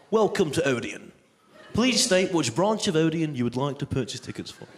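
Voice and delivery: lightly voiced phone menu; automated booking line. Booking line greets a caller, lightly imitated automated voice. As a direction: recite like a recorded ticket line. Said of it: "the automated cinema ticket booking line".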